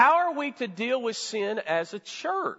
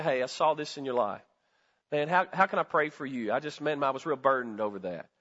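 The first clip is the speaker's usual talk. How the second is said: caring concern; 5 semitones lower than usual. Acted. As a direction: ease into it like a worried friend. Voicing a caring one-on-one talk.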